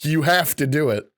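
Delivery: barely contained giggle on a quote; amused, laugh-choked quotation; quoting through laughter. Retold or imitated. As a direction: try to read the quote without cracking up. Laughing while quoting absurd celebrity advice.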